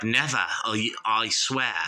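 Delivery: imitated Aussie, dropping the r's; Australian accent. Singer promising the speaker loyalty to metal, imitated Australian accent. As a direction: give it a light Australian twang. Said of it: "in an Australian accent".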